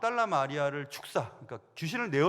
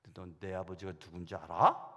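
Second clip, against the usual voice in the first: calm comeback; 9 semitones lower than usual. Pretend. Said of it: "그렇게 하려고 딱 준비하고".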